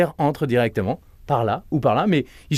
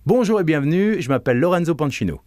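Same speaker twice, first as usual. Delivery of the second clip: presenter greeting; 3 semitones higher than usual. Shown as a demonstration. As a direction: greet the audience with energy. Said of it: "À vous".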